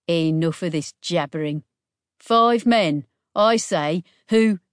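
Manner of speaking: scowling anger. Acted. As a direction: snap it out in annoyance. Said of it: "The bandit scowled".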